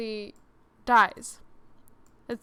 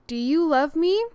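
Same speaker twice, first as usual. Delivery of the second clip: acted pleading question; 4 semitones higher, 10 dB louder than usual. Acts out book character's question.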